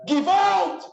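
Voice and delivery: high, loud cry from a desperate mother; retold shout. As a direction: shout it out in her despair. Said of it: "And his mother's shouting".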